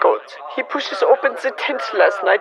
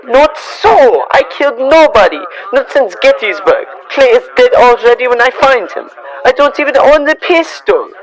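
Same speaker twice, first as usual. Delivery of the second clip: raised, insistent denial; loud protest; 4 dB louder than usual. Acted. Farmer accused of murder protesting to the crowd, loud and desperate. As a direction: shout back that you're innocent.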